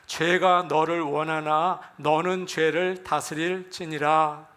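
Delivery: slow, even recitation of a Bible verse; scripture reading. Acted. Pastor leads the congregation through a verse, measured reading. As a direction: read it out slowly and evenly for a congregation.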